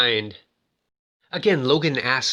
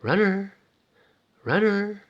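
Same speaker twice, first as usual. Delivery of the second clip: soft voice; 7 semitones higher, slower than usual. Retold or imitated. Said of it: "in a nice soft voice".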